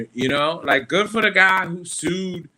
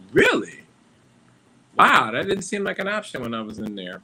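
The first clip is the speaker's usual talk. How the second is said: sarcastic surprise; 5 dB louder than usual. Retold or imitated. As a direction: fake amazement, dripping sarcasm. Sarcastic reply to inmate.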